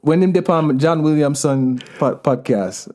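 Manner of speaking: broad Jamaican patois answer. Acted. Guest telling people when they became Jamaican, in broad Jamaican accent. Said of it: "just gonna go deeper into it".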